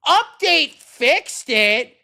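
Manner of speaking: high, loud, slow sing-song mockery; mocking parrot. Developer parroting the commenter in loud mocking sing-song. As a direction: drag out each word to ridicule it.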